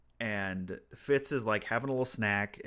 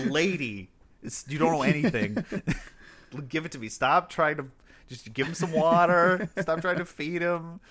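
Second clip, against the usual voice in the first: rising, louder mock scolding; bossing her about, getting louder; rude; 6 semitones higher, 4 dB louder than usual. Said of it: "He's really rude to her".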